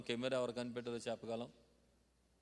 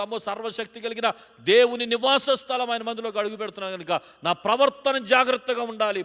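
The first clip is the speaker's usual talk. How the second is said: loud, higher preaching building to a shout; fervent preaching; 6 semitones higher, 11 dB louder than usual. Acted. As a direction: thunder the warning at the church. Preaching at full force.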